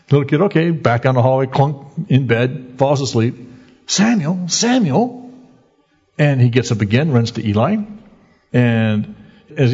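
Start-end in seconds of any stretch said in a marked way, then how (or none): 3.8-5.3 higher rising call of the name; calling voice of God. Acted. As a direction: call out to the boy again, reaching. God calling the boy again.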